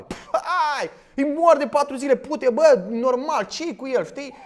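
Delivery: scoffing bystander. Retold or imitated. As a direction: mimic a jeering onlooker at the tomb. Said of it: "pelagienii ăștia care stăteau la mormântul lui Lazar". (imitând un privitor care își bate joc)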